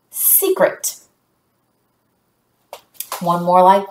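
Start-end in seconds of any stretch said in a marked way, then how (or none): 0.1-1.0 "secret" whispered with no voice. Shown as a demonstration. Teacher whispering the word "secret" for fun. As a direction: breathe "secret" like a real secret. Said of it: "this syllable is secret".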